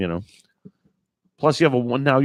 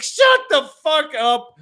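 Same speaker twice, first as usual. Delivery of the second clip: incredulous shout; 10 semitones higher, slower than usual. Retold or imitated. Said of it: "You're like".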